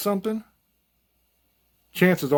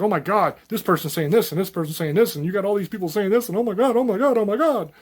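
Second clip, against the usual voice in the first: mock panic; 4 semitones higher than usual. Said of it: "everybody's like".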